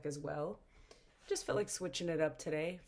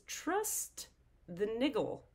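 excited; 5 semitones higher, much slower than usual. Real, not acted. Reading the card.

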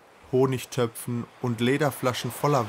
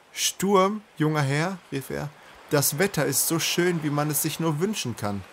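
laughing, booming call; 5 semitones higher than usual. A narrator's reading. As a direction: boom it out through a laugh. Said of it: "Und Drinian begann zu lachen".

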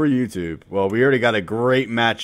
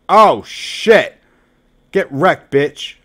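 higher, louder oh shit with a rising end; excited yell; 5 semitones higher, 7 dB louder, much slower than usual. Real, not acted. Streamer reacting to a dangerous card, excited yell. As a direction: let it burst out.

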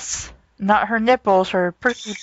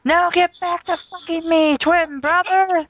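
sultry Leia voice; 6 semitones higher than usual. Acted.

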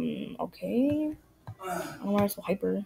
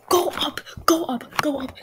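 mad parent; 4 semitones higher than usual. Pretend. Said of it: "I am so mad right now".

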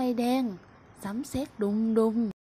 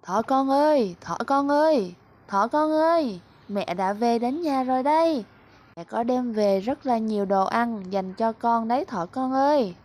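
somewhat louder mother calling; mother rabbit calling her bunny home, moderately raised; 3 dB louder than usual. Acted. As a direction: call through the house for her child. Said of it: "và gọi to".

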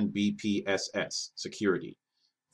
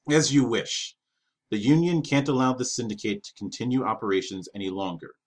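firm, measured statement of authority; 2 semitones higher, 3 dB louder than usual. Acted. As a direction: stand tall and state it firmly. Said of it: "he stated with authority".

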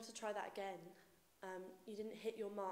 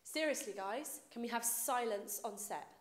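angry shout; 2 semitones higher, 8 dB louder than usual. Real, not acted. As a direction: demand silence from the crew. Director yells at crew.

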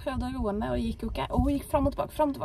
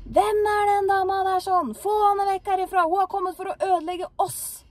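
shrill high scream, much louder; possessed woman screaming; 9 semitones higher, 4 dB louder than usual. Retold or imitated. Possessed woman screaming at the visitor to leave. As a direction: shriek at the visitor to get her out. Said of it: "hun skreik til meg og sa".

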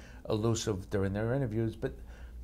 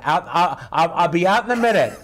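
higher, louder, with laughter; the one different take he gave, laughing; 6 semitones higher, 11 dB louder than usual. Retold or imitated. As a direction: toss the line off high and laughing. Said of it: "one time I went".

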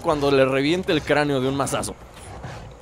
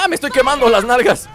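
pained yell; 6 semitones higher, 5 dB louder than usual. Real, not acted. Burning in game.

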